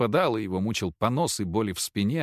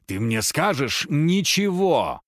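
slow, loud cry to cut him off; louder, drag each word out in anger; shouting; 4 semitones higher, 4 dB louder, slower than usual. A narrator's reading. Wife cuts off her husband with a slow, loud shout. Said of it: "прервала его криком Маша".

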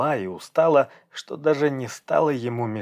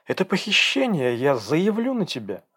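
angry protest; 6 semitones higher than usual. Acted. Angry girl in the car.

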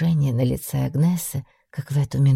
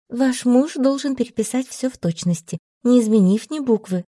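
strict; 7 semitones higher than usual. A narrator's reading. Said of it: "сказала она строго".

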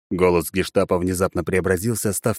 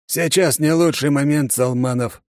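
put-on creaky old officer; 8 semitones higher, 3 dB louder, slower than usual. A narrator's reading. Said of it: "проскрипел старый офицер".

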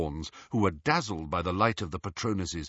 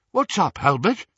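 nervous; 6 semitones higher, 5 dB louder than usual. A narrator's reading. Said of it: "He looked nervous".

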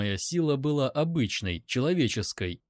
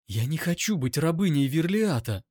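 higher, voiced stand-in for a trembling whisper; trembling plea; 5 semitones higher than usual. A narrator's reading. Captive begs not to become a slave, trembling. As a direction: plead with a touch of tremor. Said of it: "прошептала она".

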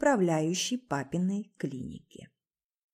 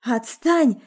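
loud sobbing yell; a wife screaming through sobs at her husband; 4 semitones higher, 6 dB louder than usual. A narrator's reading. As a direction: scream it while crying. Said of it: "заорала я сквозь рыдания".

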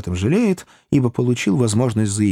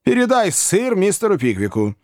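put-on old Wardle; 10 semitones higher than usual. A narrator's reading. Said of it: "сказал мистер Уордль".

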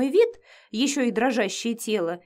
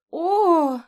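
high startled oh; short scared cry; frightened gasp; 7 semitones higher, 4 dB louder than usual. A narrator's reading. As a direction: jump at the threat. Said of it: "испугалась я".

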